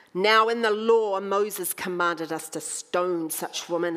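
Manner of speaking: loud, pointed challenge, then slowing; accusing challenge. Acted. Pharisees challenging Jesus before the crowd, loud accusing voice. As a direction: throw the law at him like a trap.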